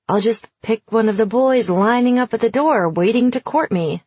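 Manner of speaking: dry deadpan sarcasm; sarcastic. Acted. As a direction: say it with heavy irony. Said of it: "she was being sarcastic".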